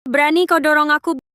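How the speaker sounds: high, loud outraged yell; furious shout. Acted. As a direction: shout it, shocked that she dared. Pushed, she lashes out.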